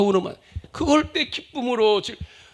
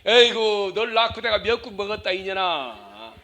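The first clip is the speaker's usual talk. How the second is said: grumbling mother. Acted. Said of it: "자식 원망합니다".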